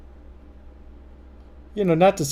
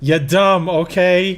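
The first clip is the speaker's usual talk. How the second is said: louder, insult through laughter; laughing mock insult; 3 semitones higher, 6 dB louder, slower than usual. Repeating the joke insult to a friend, laughing. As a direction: crack up while pretending to insult.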